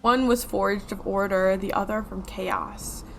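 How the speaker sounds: slow, grave tale-telling voice; dramatic storyteller voice. Acted. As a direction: read it like an old legend. Reads the NPC's dialogue.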